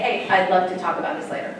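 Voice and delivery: "Hey, I'd love to talk about this later" falling gently at the end; "talk about this later" settles down with no questioning lift; statement, not a question. Shown as a demonstration. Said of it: "I don't say it as a question".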